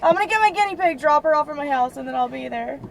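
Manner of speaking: high, loud, sing-song mockery of her own phone line; squeaky mock imitation of the plain phone voice; mocking basic girl. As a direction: parrot yourself like a ditzy basic girl. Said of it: "the fucking most basic bitch thing to say".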